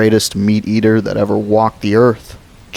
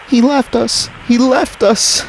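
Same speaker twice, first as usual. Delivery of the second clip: put-on screaming child. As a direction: scream it over and over. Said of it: "she had started to scream".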